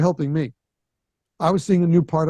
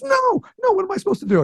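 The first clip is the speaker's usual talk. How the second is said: much higher, squeaky panicked voice; panicked kid; faster than usual. Retold or imitated. Underdressed kid panics that he missed the message, squeaky and high. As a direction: yelp it like a kid who fears he's underdressed. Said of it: "He goes".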